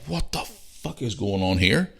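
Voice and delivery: slow, drawn-out mock disbelief; retold disbelief. Man finding a screw in his foot, retold disbelief.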